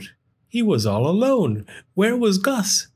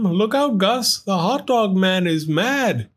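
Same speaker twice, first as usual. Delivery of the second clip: high, alarmed call; urgent warning; 8 semitones higher than usual. Acted. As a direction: warn him in a hurry. Sam warning Gus.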